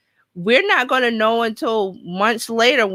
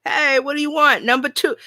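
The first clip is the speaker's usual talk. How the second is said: higher-pitched pretend yell across a restaurant; mock calling across; 5 semitones higher than usual. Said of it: "are they gonna yell across".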